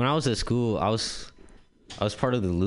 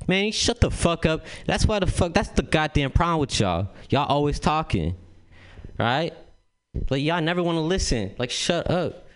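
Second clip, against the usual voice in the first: raised, higher mock coach rant; coach yelling; 7 semitones higher than usual. Coach scolding the rich kids, raised mock tirade. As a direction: bark at the lazy kids like a fed-up coach. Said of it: "the coach goes".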